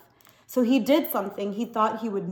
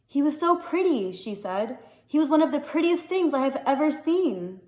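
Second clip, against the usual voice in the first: put-on girlish wonder; 4 semitones higher than usual. Girl mourning tiger.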